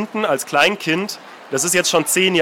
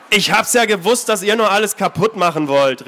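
higher, accusing shout; boy accusing the intruders; calling out; 4 semitones higher than usual. Acted. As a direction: vorwurfsvoll gerufen. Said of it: "rief Eric".

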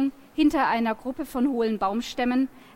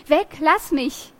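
loud, high and slow; frightened shout; 4 semitones higher, 4 dB louder, slower than usual. Acted. Girl scaring away the circling wolf, loud frightened shout. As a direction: yell to drive the wolf off.

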